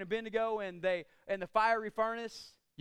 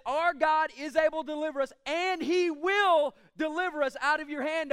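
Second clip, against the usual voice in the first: loud and firm, leaning on "able" and "will"; confident faith declaration; 3 semitones higher, 5 dB louder than usual. Shown as a demonstration. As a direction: declare it as certain fact. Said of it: "It says".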